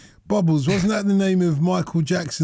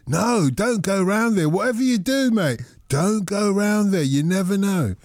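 mildly acted cautioning officer; police warning; 2 semitones higher than usual. Police warning the host off, mildly acted urgent caution. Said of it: "they said".

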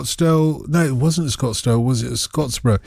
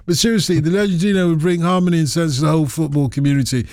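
ordinary delivery

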